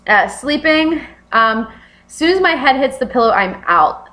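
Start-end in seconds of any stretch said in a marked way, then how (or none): none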